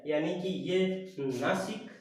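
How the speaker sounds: normal talking voice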